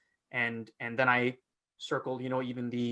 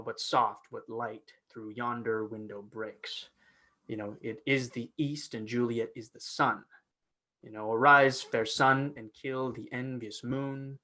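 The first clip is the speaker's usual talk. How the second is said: stressed verse reading; slower than usual. Shown as a demonstration. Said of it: "I go through the stressed and unstressed syllables".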